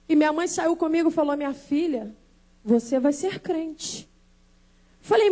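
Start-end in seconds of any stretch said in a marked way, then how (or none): 1.4-4.1 lower, softer, slow; calm motherly certainty. Retold or imitated. Mother telling her daughter her future, calm and certain. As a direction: quietly assure her, taking your time.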